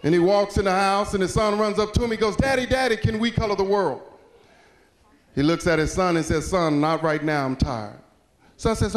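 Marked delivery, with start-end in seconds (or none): 2.3-4.0 put-on mildly excited kid, pitched up at first; eager child. Son runs up to his daddy, eager. 6.5-8.0 lower, sinking voice of a tired dad; weary father. Acted. Tired dad to his eager son, weary.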